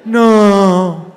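loud disbelieving groan; loud mock outrage; retold disbelief. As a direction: react loudly in disbelief at a stream.

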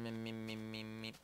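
revving engine noise with the voice; motorcycle revving sound. Pretend. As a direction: rev it like a motorbike. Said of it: "motorcycle noises".

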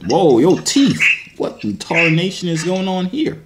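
cowboy voice. Acted. Cowboy exclamation at teeth.

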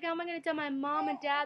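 fast, high tearful plea; retold panicked crying, quick and high. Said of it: "I just started crying and crying".

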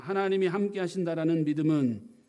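loud, deliberate declaration of faith; loud preacher's declaration; proclaiming aloud. Shown as a demonstration. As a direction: proclaim it boldly to the room. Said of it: "우리 선포합시다".

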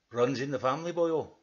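lilting mock-Welsh; lightly badly faked Welsh; bad Welsh accent. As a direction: shrug it off in dodgy Welsh. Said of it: "are you Welsh or Pakistani".

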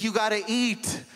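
impression of an overbearing mother; mock Lebanese mom. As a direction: nag him to eat. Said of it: "a Lebanese mom like that".

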